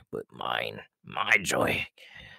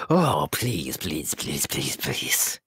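pleading; 5 semitones lower, much slower than usual. Acted. Begging for candy.

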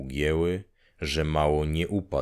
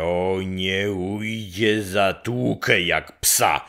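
slow, drawn-out repeat of the threat; slow menacing vow; slower than usual. Acted. Grześ repeating his threat against Marcin, slow and menacing. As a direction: lean on each word like a promise.

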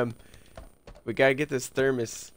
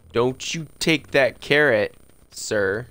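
mock scolding; 2 semitones higher, 6 dB louder, slower than usual. Scolding the groundskeeper.

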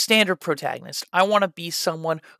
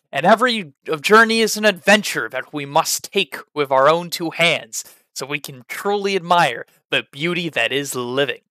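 louder, grand heroic declaration; confident and stoic; 4 dB louder than usual. Shown as a demonstration. Teacher demonstrating a confident stoic character, louder proud speech. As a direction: proclaim it like a bold hero. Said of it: "very confident and stoic".

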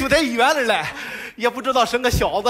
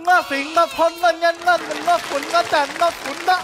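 put-on silly baby rhyme; 4 semitones higher than usual. Worker soothing a crying baby.

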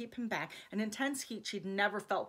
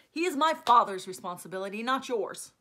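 stern scolding; 7 dB louder than usual. Acted. Stefan scolds Alex in argument.

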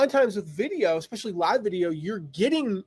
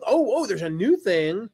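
higher-pitched, acted little discovery; mock pleasant surprise; 4 semitones higher, 4 dB louder than usual. Reader spotting an update in an old post, mildly surprised. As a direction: play a reader suddenly noticing something.

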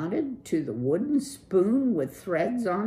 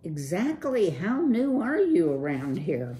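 surfer dude; 4 semitones higher, 4 dB louder than usual. Acted. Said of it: "Clutch said".

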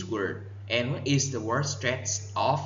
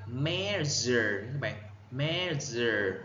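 "measure" as MEA-sure with a Z-like middle; first-syllable stress; 3 dB quieter, slower than usual. Shown as a demonstration. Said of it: "nhấn âm, âm một". (nhấn âm một của "measure")

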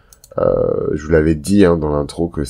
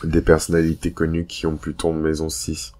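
hungover; 4 dB quieter than usual. Real, not acted. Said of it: "vous pouvez l'entendre à ma voix, je suis complètement décalqué".

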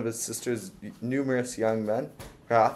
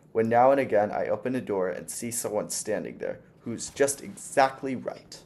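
put-on sweet old landlady. Old landlady fussing over her new lodger, lightly sweet. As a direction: coo at the young guest like a fussy old lady.

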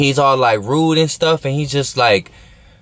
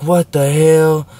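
disbelief; 4 semitones higher, 3 dB louder, much slower than usual. Retold or imitated. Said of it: "I'm like".

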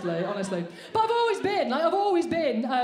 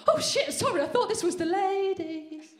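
higher startled apology; mock startled woman; 5 semitones higher than usual. Woman walking into the toilets apologising, mock startled. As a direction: apologise in fake shock. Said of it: "take one look at me and go".

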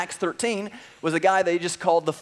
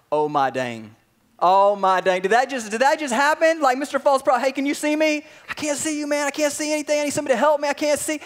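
much higher, panicked disbelief; shocked disbelief; 8 semitones higher, 4 dB louder than usual. Acted. Governor watching his friend struck blind, stunned and much higher. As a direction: shoot the voice up in shock.

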